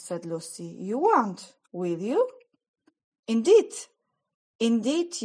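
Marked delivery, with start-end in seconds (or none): 0.6-3.7 loud urgent plea; pleading cry. A narrator's reading. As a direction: cry out to stop him. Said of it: "Lucy begs the faun".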